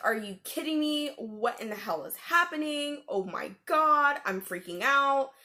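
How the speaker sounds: mild mock panic; retold freak-out. Retold panic at hearing growl.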